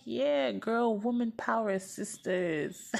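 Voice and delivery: put-on high, cheesy girl-power cheer; mock girl-power cheer. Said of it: "And I'm like".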